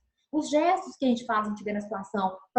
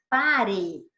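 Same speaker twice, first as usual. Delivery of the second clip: exclamatory command; 2 semitones lower, 3 dB louder than usual. Shown as a demonstration. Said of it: "Outro ponto de exclamação".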